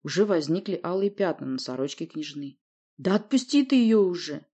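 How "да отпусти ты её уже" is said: louder, raised cry; fed-up shout at the captor; exasperated exclamation. Acted. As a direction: throw it out impatiently. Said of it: "воскликнул я".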